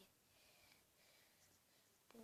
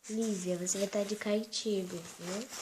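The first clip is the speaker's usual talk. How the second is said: much louder, slow exasperated exclamation; exasperated cry; 11 dB louder than usual. Pretend. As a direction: throw your hands up at the child. Mãe exasperada com a filha-boneca. (mãe exasperada com a filha, bem alto e devagar)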